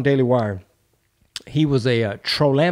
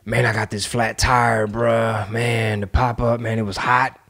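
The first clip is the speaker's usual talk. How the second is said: low, weary-sounding mock grumble; mock complaining; 3 semitones lower than usual. Imagined poster griping on Twitter, mild mock complaining. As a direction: list petty troubles in a mild put-on moan. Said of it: "I was just complaining".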